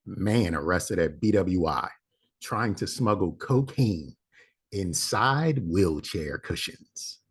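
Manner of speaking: slow, deliberate news read; headline read. Acted. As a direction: announce the headline slowly. Reads headline announcer style.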